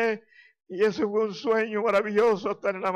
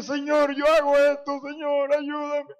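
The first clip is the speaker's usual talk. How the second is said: higher-pitched plea to God; raised, imploring retold prayer; retold pleading prayer; 4 semitones higher than usual. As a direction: re-enact begging the Lord for help. Re-enacts desperate prayer for help.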